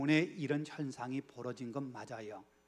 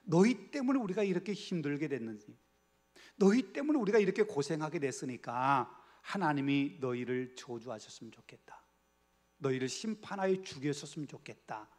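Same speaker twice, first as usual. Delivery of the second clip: angry complaint; 4 dB louder than usual. Acted. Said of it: "이런 마음 갖고 있는 거예요".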